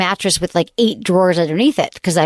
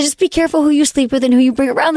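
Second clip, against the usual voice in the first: bad Mexican accent; 5 semitones higher than usual. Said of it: "Your Mexican accent is, it's god awful".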